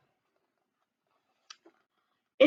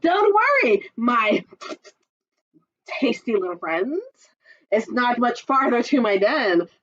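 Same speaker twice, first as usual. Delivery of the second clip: chuckling fox; 3 semitones higher than usual. Acted. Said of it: "chuckled Foxy Loxy".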